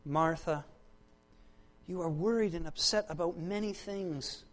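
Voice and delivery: mild, gentle rebuke; Jesus. Acted. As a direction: softly chide with care, pausing between phrases. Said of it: "gently, rebukes her".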